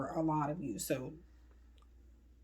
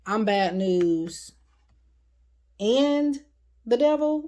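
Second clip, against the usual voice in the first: menacing voice; 2 semitones higher, 6 dB louder, slower than usual. Acted. Voicing the Devil card's message.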